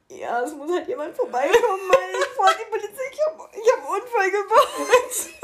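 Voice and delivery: high, loud words cracking with laughter; half laugh, half wail the confession. Retold or imitated. Telling her dad about the accident, high and laughing. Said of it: "ich so".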